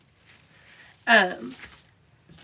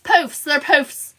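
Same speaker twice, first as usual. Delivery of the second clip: slow emphasis; slower than usual. Real, not acted. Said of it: "Not cruffles".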